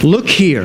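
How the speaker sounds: "Look here" with weight on "look", falling; emphatic. Shown as a demonstration. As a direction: stress "look" like a call to attention. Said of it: "That's an emphatic".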